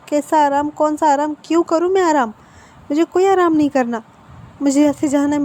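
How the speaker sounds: refuses to rest, pushing back harder line by line; angry outburst. Acted. Patient to Wang ji, refusing rest, in a rising angry protest.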